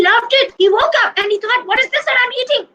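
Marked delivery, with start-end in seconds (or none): 1.6-2.7 surprised. Acted. Surprised waking up eating.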